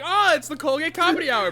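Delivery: high, loud excited crowd. Acted. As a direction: cheer it like the audience. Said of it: "everyone's like".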